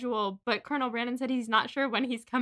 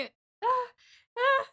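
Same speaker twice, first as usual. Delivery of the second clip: high swooning gasp, then a second; 13 semitones higher than usual. Shown as a demonstration. Host showing what the hot line did to her, swooning sigh. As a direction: let out a little high "ah" of delight. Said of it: "it made me".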